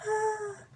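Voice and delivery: high, breath-led crying wail; imitated sob. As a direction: act out a sobbing release. Relieved crying as she hugs brother.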